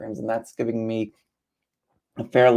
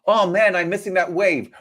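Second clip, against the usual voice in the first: frustrated surfer; 4 semitones higher, 3 dB louder than usual. Retold or imitated. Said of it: "to the beach and says".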